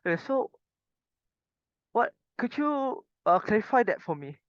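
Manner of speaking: puzzled, rising request to clarify; asking to clarify. Shown as a demonstration. Teacher to student asking him to clarify, puzzled. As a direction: play lost and ask him to clarify. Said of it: "So you ask him".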